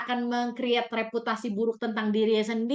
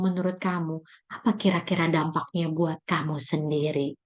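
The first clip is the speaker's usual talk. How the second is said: coaching mother; 2 semitones lower than usual. Shown as a demonstration. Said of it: "baru masuk fase coachingnya".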